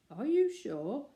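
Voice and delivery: a mother's nervous doubt; anxious. Acted. Missus Brown fretting about the watch trick, anxious. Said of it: "asked Missus Brown anxiously".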